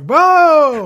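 high, loud drawn-out whoa; exaggerated group astonishment; mock amazed crowd. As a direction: play a whole room's stunned reaction. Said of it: "everybody's just like".

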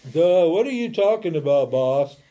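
loud, dopey confused friend; dim Arjuna. Retold or imitated. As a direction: play Arjuna totally lost, blurting it out. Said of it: "Arjuna's like".

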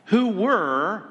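"were" drawn out with a high, swooping pitch; emphatic scripture reading, "were" lifted for notice; stress on "were". Shown as a demonstration. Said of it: "note that".

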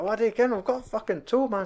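high mock Walter bluster; imitating Walter shrugging off the toe; Walter scoffing. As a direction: boast you can get a toe. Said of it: "He's like".

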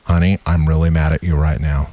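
low deadpan monotone; mock a fight with no feeling at all; stiff, flat-toned mock anger; emotionless arguing partner. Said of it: "in the relationships I was in".

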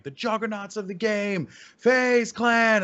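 high, booming announcer call, rising to loud on FaZe Clan; arena announcer. Retold or imitated. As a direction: hype the team's entrance like a ring announcer. Reenacts his arena announcement.

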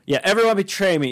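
lightly voiced accented movie star; Tommy Wiseau impression. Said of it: "it was Tommy Wiseau's story".

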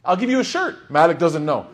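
high, loud defiant declaration; emphatic shout. Retold or imitated. Imam Malik defiantly answering the visitor, loud and high. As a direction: throw it out boldly, doubling down. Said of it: "He doubled down".

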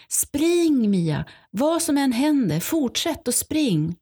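a high, urgent retold call; retold shout. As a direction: echo mum's desperate cry to keep running. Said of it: "hon skriker till mig".

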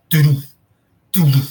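quick thudding bear footfalls done by mouth; imitated pounding feet. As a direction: drum out the steps of a charging bear. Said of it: "And the feet, you could hear".

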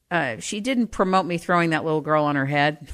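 laughing. Real, not acted. Laughing at childhood memory.

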